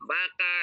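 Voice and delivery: "Baka" begun with a clear B; B, not V. Shown as a demonstration. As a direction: say "Baka" with B in place of V. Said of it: "not with the V". ("Baka", B ang bigkas at hindi V)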